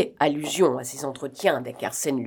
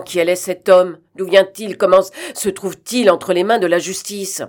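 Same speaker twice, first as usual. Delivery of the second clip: loud, startled outcry; exclaiming; 3 semitones higher, 8 dB louder than usual. A narrator's reading. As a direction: burst out at the court. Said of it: "s'écria le président". (s'écrier fort)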